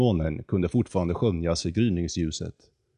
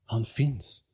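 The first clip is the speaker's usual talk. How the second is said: exclaiming; 4 semitones higher, 3 dB quieter than usual. Acted. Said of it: "utropade hon".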